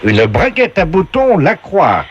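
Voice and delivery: high, slow host announcing prizes; game show voice. Acted. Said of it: "la voix du jeu".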